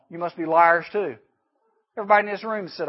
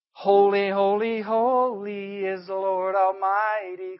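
seraphs crying out in slow, awed praise; calling out; 3 semitones higher, slower than usual. A narrator's reading. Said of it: "And they were calling".

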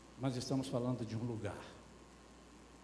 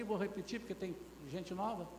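ordinary delivery

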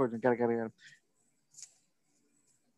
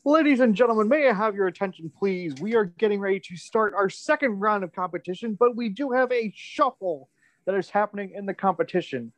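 over the intercom. Acted. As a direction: announce the matchups to the whole crowd. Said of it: "announce that news to the crowd".

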